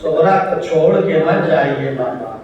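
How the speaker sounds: plead, drawing out بابا; anguished plea. Acted. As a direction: Sughra begging her father, mildly anguished. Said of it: "Sughra تڑپ کے کہتی ہے".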